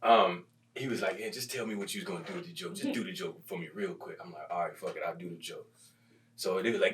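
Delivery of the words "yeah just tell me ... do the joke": much softer murmured exchange; quiet resigned aside. Retold or imitated. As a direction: say it low, just between you two.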